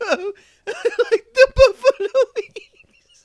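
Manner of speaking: high, loud, laughing mid-sentence. Recounting something funny a woman said about buffalo wings, laughing hard. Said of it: "I'm fucking crying".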